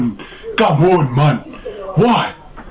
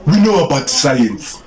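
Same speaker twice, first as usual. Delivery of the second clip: put-on Nigerian accent. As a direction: try the pickup line in Nigerian English. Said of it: "do it in the Nigerian accent".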